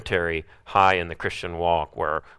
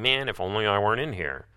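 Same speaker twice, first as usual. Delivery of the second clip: quick grumbling aside; mock grumbling; faster than usual. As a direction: grumble it fast. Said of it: "start grumbling".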